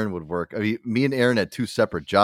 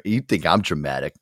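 ordinary talk

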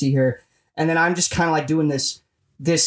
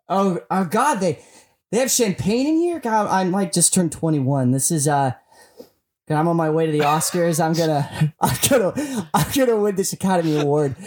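bubbly, giddy self-talk in a limo; giddy limo ride. Pretend. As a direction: act thrilled on the way to the Oscars. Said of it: "the sound of you in the limo".

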